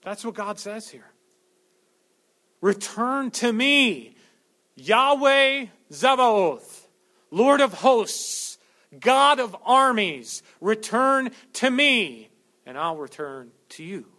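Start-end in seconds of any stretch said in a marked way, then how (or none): 2.6-14.1 loud, slow, ringing call; slow loud cry of God calling his people back; thundering proclamation. Acted. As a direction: call them home with full force.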